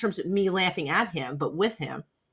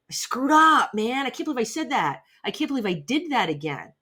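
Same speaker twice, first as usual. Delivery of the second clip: higher, exasperated self-talk; playing your own inner critic, a touch higher; mock self-scolding; 6 semitones higher than usual. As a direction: act out beating yourself up over a slip. Acted self-blame after a mistake.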